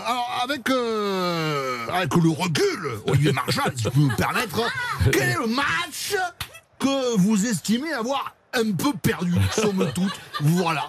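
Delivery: a mock southwest French accent, question stretched and sung up high. Host asks the actor about a lost match, mock southwest accent. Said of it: "je vais la faire avec l'accent".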